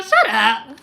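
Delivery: can't hold the laugh in; laughing dismissal. Real, not acted. Telling off fake card readers online, laughing. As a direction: shut up breaking into a high laugh. Mocking fakes, cracking up.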